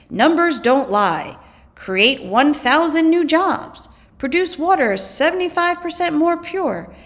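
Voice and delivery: confident advertisement read; ad pitch. Acted. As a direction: sell each figure as solid proof. Acted ad quoting impressive numbers.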